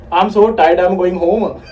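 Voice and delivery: quick, connected Indian-English model line; Indian accent demo. Shown as a demonstration. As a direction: show a learner the Indian accent, without pausing. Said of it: "You have to say like".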